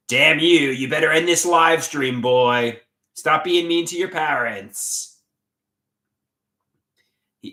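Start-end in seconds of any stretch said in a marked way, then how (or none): 0.1-5.2 loud, shaking-fist villain rant; sputtering foiled villain. Retold or imitated. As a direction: shake your fist and sputter at him. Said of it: "He's doing Arthur the Aardvark".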